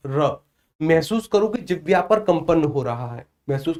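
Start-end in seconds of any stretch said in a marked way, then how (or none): 0.1-0.4 र with a rolled, vibrating tongue; trilled r demo. Shown as a demonstration. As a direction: roll the र so the tongue buzzes. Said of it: "उच्चारित करो र".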